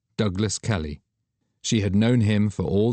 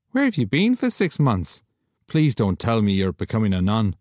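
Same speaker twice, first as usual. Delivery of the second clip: Douglas joking; 3 semitones higher than usual. Acted.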